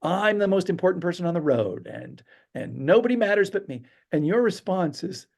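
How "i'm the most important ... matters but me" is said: high, mock self-important whine. Storyteller voices the rude driver's negativity, high self-important tone. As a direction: imitate an entitled driver, pitched up. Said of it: "he's hitting you with all this negativity".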